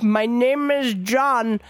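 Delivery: lightly imitated Indian call-center accent, drawn out slowly; slow mock Indian-accented phone greeting; mock thick accent. Caller mimics an outsourced phone agent, lightly mocked Indian accent. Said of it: "such a thick accent".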